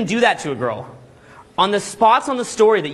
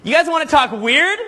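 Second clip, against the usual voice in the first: laughing hype shout; 8 semitones higher than usual. Real, not acted. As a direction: fire up the room with a laugh. Hyping up the crowd.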